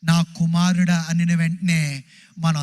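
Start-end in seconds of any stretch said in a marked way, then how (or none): 0.0-1.1 put-on slow, tender call to a child; slow fatherly call to his children; God calling tenderly. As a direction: draw each word out like a loving father. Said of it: "దేవుడు".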